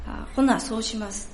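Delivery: put-on old woman agreeing in light Kansai dialect; a meek Kansai nod in words; Kansai accent. Old woman agreeing with her pastor, in a Kansai accent. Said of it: "ちょっとここから関西弁になりますので".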